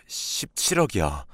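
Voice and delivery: half-whispered, drawn-out disclosure; hushed reveal. Acted. Husband telling his wife the inheritance sum, hushed. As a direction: whisper it slowly, like a staggering secret.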